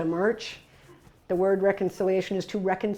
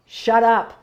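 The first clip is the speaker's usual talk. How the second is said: raised, urgent voice pulling a friend back; louder, pressing him to stop yelling at the cops; urgent warning; 3 semitones higher, 4 dB louder than usual. Retold or imitated. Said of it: "and I said".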